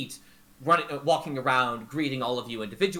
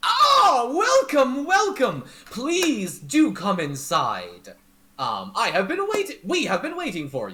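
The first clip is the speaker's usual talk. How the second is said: very high, loud, effusive, swooping sing-song voice; 9 semitones higher, 6 dB louder than usual. Voicing a host who welcomes the players inside: Mister Light voice. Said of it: "Mister Light looks at you and says".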